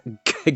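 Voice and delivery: little laugh at a slip; short laugh. Real, not acted. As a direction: laugh off the stumble. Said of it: "narrator laughs at slip".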